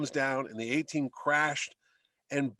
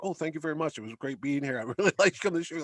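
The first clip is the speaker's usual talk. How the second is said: soft-spoken man; much faster than usual. Retold or imitated. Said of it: "he's like".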